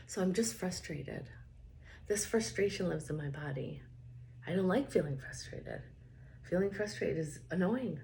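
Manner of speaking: steady, even statements to repeat; tapping script. Acted. Coach leads viewers through frustration tapping, calm and even. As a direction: voice the frustration plainly for them to echo.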